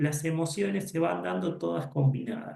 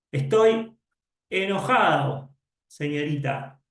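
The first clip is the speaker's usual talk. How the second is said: student telling his teacher he is angry; 3 dB louder than usual. Pretend. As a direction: play the angry kid complaining.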